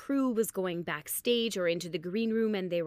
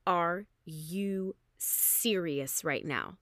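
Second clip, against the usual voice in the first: slow, drawn-out disbelief; freaking out; much slower than usual. Retold or imitated. Lucky customer offered two classes, slow stunned disbelief. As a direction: space the words out, stunned. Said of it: "Now I'm freaking out".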